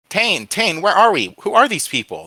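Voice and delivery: high, loud, urgent questions; frantic calling out. A narrator's reading. Tied-up boy calling to his friend, frantic. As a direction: call out for your friend in alarm.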